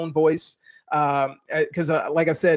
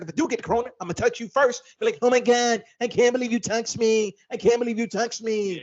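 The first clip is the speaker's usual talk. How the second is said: higher, excited Hart voice; Kevin Hart impression; 4 semitones higher than usual. Kevin Hart arguing with his wife, high mock outrage. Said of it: "Also starring Kevin Hart".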